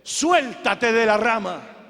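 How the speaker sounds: loud, slow command; lightly voiced God giving a measured order; deliberate, projected instruction; voice from heaven. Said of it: "siente una voz que le dice".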